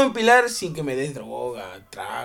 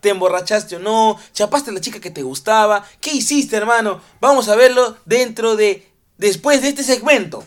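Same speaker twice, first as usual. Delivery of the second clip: presentación animada, algo más aguda; da paso al segmento con energía; presentador de programa; 3 semitones higher, 4 dB louder than usual. Acted. Presenta la sección del programa. (presentador animado)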